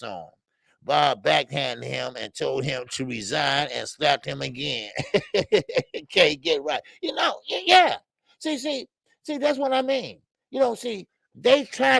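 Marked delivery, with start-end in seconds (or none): 5.5-12.0 laughing high while talking; cracking up at his own joke; giggling through the words. Real, not acted.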